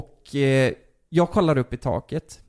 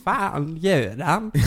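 puzzled neighbour; 3 semitones higher, much slower than usual. Retold or imitated. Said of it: "Tänk vad grannen har varit vaken".

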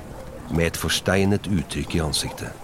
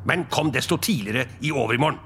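quick, higher, grudging command; grumbling order; 4 semitones higher, faster than usual. Acted. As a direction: order the clerk about grudgingly. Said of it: "brummet Scrooge". (rask, gretten ordre)

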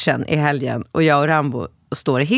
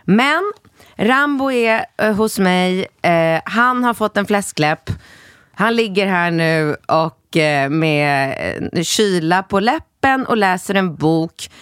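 school nurse; 4 semitones higher, slower than usual. Retold or imitated. Nurse continues on phone.

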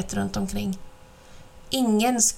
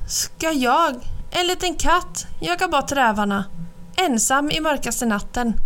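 wide-eyed cat; 5 semitones higher than usual. Acted. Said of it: "Katten spärrade upp ögonen".

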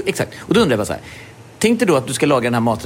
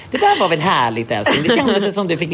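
mock sweet wife; 4 semitones higher than usual. Wife voiced after sex.

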